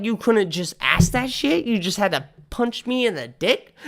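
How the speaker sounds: high, laughing outrage; laughing disbelief. Retold or imitated. To the man who punched him, laughing in disbelief. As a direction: laugh through the complaint. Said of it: "I'm all like".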